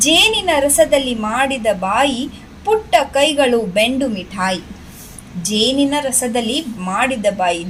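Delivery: lilting, measured verse reading; poem recitation. Shown as a demonstration. Teacher reads rabbit poem to children, sing-song recitation. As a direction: recite it in rising and falling waves.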